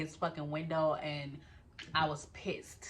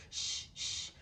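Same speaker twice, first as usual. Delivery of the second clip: hushing, higher and softer; 6 semitones higher, 7 dB quieter than usual. Retold or imitated. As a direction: urgently shush the room, softer. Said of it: "he's like".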